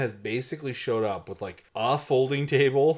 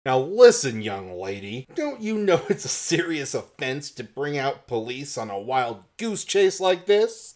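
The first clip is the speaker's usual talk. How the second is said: stern detective. Acted. Scolding detective quote.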